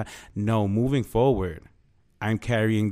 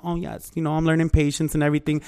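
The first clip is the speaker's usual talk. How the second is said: quiet peaceful voice; 4 semitones higher than usual. Retold or imitated. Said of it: "y'all see me quiet".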